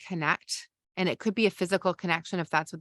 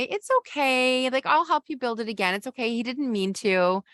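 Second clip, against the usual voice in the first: higher, hurried chirpy reassurance; rushing to fix; 5 semitones higher than usual. Shown as a demonstration. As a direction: rush them past the upset to fix it. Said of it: "And you say".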